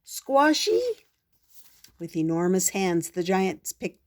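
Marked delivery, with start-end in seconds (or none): 0.0-0.8 higher, louder giant's odd cry; giant yelling. Acted. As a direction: bellow like a silly giant. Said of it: "The giant yelled".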